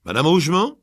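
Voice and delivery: put-on American accent. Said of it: "avec un fort accent américain".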